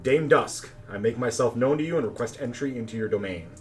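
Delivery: a touch of a commanding visitor; firm, commanding call. Acted. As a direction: call out firmly to announce yourself. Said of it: "a firm and commanding voice calling out".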